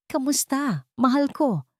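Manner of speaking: high, sugary greeting with menace; sweet as poison, mocking. A narrator's reading. Wife greets the husband she haunted, poison sweet. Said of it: "kasing tamis ng lason".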